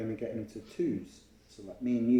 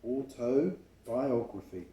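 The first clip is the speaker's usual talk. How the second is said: slow repeat; slower than usual. Shown as a demonstration. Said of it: "That's a long word, isn't it?".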